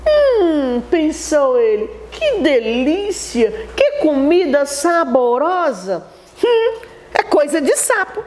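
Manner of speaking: lightly voiced toad relishing food; pleased toad thinking aloud. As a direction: savour it like a greedy toad.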